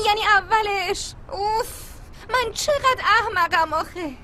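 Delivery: halting, teary words with a sob; tearful. Acted. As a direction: choke up as you admit it. Upset friend confessing her mistake.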